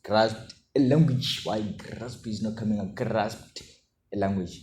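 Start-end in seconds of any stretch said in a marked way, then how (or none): 0.0-1.4 accidental Russian-sounding accent; slow, unintended Russian-like pronunciation; Russian-sounding slip. Real, not acted. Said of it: "I sound like a Russian". 2.9-4.6 accidental Russian-sounding accent; retry "grasped", coming out Russian-like; unintended Russian-like pronunciation; Russian-sounding slip. Real, not acted. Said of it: "I sound like a Russian".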